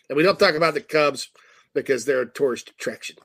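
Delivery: a light Chicago accent, close to his own voice; casual Chicago sports-fan talk in a mild Chicago accent. Shown as a demonstration. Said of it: "Give us your Chicago accent".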